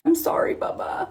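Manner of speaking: put-on soft, airy little-kid apology; hushed put-on little-girl voice; imitated young daughter. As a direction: mimic a small child saying sorry, barely voiced. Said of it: "She gives him a kiss and she's".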